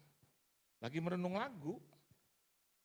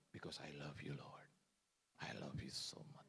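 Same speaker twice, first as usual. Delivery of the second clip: mock tender prayer; 6 semitones lower, 10 dB quieter than usual.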